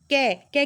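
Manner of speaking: कै said clearly to show the vowel ए after क; consonant demo. Shown as a demonstration. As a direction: sound out कै so the ए is heard. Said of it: "practically आप समझोगे".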